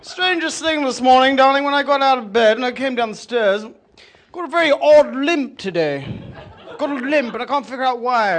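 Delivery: loud, hearty declaration; booming husband. Acted. Husband loudly tells wife about his limp. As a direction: announce it to the whole room.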